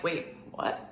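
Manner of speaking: soft breathless wait, what; stunned whisper. Retold or imitated. Hearing her friend say her mom abuses her, shocked whisper. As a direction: gasp it out quietly in disbelief.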